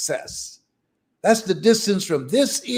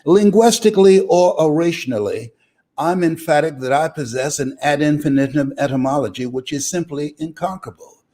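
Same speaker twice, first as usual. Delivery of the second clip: mock big words; 5 semitones lower, faster than usual. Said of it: "They call me Mister Vocabulary".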